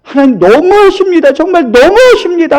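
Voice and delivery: lightly mimicked crying protest; retold tearful plea. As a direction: act out a hurt, wailing complaint without real sobs. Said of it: "하면서 막 펑펑 울었어요".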